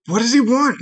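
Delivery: high little questioning voice; tiny creature calling out. Acted. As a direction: ask it in a small, high voice. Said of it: "Second one calls out".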